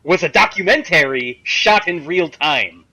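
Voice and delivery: mock yell. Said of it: "Master Shake yells at him".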